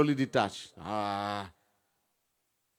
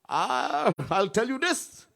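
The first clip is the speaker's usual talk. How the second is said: lightly playing the angry other person; a mild mock scolding voice; quoted scolder; 12 semitones higher, slower than usual.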